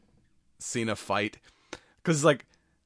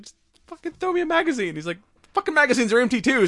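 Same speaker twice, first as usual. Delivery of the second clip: much higher, louder and fast, hammed-up panic; mock frantic yelling; 7 dB louder, faster than usual. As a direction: yell it like a cop pinned down with no ammo. Bickering buddy cops under gunfire.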